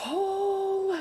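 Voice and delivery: high loud oh, mad; a burst of disbelief; exclaimed oh. Real, not acted. Recalling her anger.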